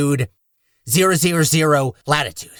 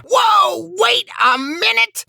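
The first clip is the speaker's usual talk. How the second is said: startled; slower than usual. Acted. Retake of startled line.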